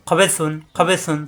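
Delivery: খবে সুন with a soft, lisped start to সুন; soft consonant. Shown as a demonstration. Teacher models the word, খবে সুন with soft সুন. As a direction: soften the first sound of সুন. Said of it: "সুন নরম করে".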